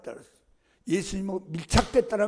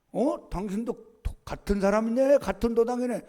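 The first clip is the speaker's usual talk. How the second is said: higher, surprised accusing voice; second servant's accusation; 5 semitones higher, 5 dB louder than usual. Retold or imitated. Second servant girl accusing Peter, higher and surprised. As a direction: catch him out.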